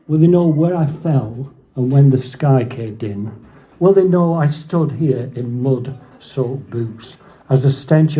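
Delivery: measured reading of a war poem; poem recitation. Acted. Reciting a soldier's trench poem, solemn verse reading. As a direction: recite in lines, pausing between them.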